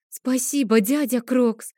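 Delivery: put-on high little girl's thank-you; childish babble. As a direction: lisp it like a delighted small girl. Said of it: "пролепетала Адель". (высокий детский лепет)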